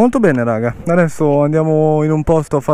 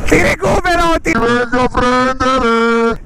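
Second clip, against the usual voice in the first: excited shout; 7 semitones higher, slower than usual. Real, not acted. Chasing friend in race.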